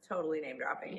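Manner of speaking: whispered aside; quiet admitting whisper. Real, not acted. Aside admitting name drop.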